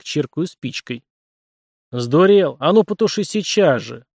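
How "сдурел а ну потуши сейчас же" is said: hissed angry rebuke, loud; angry hissing voice. Acted. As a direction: snap it like a furious spirit in the head. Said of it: "Злобный шипящий голос".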